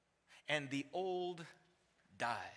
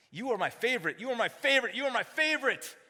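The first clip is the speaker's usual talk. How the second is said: building declaration; 5 semitones higher, 3 dB louder, faster than usual. Pretend. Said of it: "What grace says".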